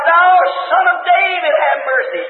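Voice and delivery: beggar calling out for mercy, top of the first phrase; crying out. Retold or imitated. Beggar crying to Jesus over the mob, a mild call. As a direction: call out to Jesus, then let it fall. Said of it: "he cried out".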